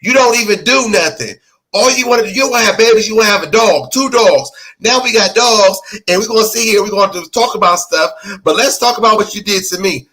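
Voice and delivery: talking like him. Acted. Podcaster mocks the husband by imitating his voice. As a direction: nag in his whiny voice, only lightly put on. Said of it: "I'm gonna talk like this".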